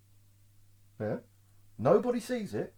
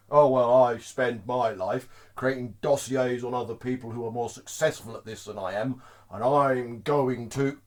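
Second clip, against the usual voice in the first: mock self-important; 4 semitones lower than usual. Mocking the dossier-maker.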